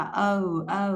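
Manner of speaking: "O" gliding from o into a pursed u; rounded O-U glide. Shown as a demonstration. Teacher demonstrating the diphthong, rounded glide on "O". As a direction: round the lips and slide "O" toward u. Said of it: "âm O chu miệng, ... chu chu ra một xíu".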